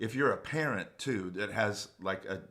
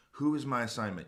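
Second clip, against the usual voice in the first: WHO pitched up and leaned on; stress on WHO; 4 semitones higher, faster than usual. Retold or imitated. Asking the Lord on set, with WHO stressed high. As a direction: correct it by punching the word Who.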